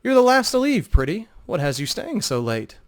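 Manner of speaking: the charmer leaning in with a compliment; flirting minstrel. Acted. Talon flirting with lingering Vo, charming minstrel voice.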